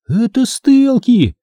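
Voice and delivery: high, drawn-out exclamation; gasped alarm. A narrator's reading. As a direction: breathe out a high cry of alarm. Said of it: "выдохнула Эмили". (испуганный возглас на выдохе)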